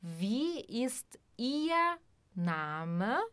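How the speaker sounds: slow whispered repeat; whispered model for learners. Shown as a demonstration. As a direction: whisper it slowly for students to copy.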